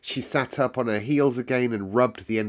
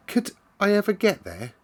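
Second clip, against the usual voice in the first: put-on much higher, longing little girl's question; wistful; 12 semitones higher than usual. Lonely Mary asks about the far-off moor, wistful and longing. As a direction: ask it gazing at something out of reach. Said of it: "asked Mary wistfully".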